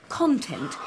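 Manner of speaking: "content" stressed CON-tent; stress on first syllable. Shown as a demonstration. Actress quotes her co-actor's content, stressed CON-tent. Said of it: "you put the emphasis on the first syllable".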